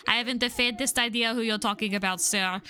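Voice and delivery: put-on lightly French-accented denial. Bartender denying he knows who is meant, light French accent. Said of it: "Should I give him a French accent?".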